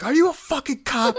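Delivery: high-pitched mock interrogation, breaking into laughter; laughing, squeezed-high movie quote; acted interrogation. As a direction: blurt it high, playing the interrogator. Acting out the interrogation scene.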